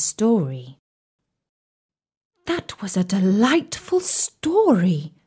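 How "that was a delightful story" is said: slow whispered delight; whispering. Acted. Sultana praises story.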